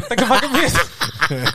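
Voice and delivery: put-on slow, high Boston accent, laughing. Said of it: "I was trying to do Boston".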